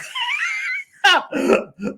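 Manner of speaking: a real laughing fit. Real, not acted. Laughing at his own text.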